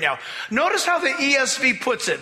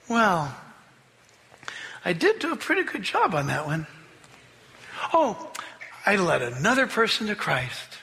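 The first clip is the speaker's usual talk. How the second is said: smug self-praise; 4 semitones lower, 3 dB quieter than usual. Pretend. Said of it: "The evidence that we spend too much time with us is".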